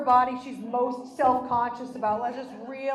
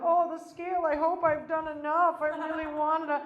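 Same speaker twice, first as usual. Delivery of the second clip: mock hopeful act; 3 semitones higher than usual. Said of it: "a whole act and get there and be like".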